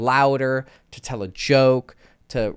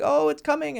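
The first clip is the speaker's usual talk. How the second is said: anticipating the drop; 14 semitones higher than usual. Retold or imitated. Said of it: "you're like".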